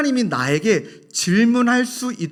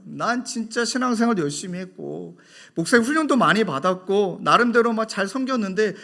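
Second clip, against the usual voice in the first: retold angry complaint; 2 semitones higher, 4 dB louder than usual. Young woman venting to the pastor, mock angry. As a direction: play her frustration in the retelling. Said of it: "막 역정을 내는 거예요".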